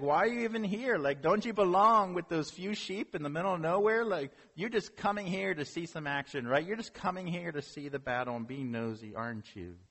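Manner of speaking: jealous older brother mocking David, mildly angry; mock angry big brother. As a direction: scold the little brother, mildly hammed. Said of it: "Eliab is angry".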